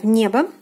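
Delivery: небо ending in a reduced "a" sound; careful teacher's небо, "NYE-ba"; model pronunciation. Shown as a demonstration. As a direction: say небо with unstressed о as "a". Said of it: "is pronounced as A".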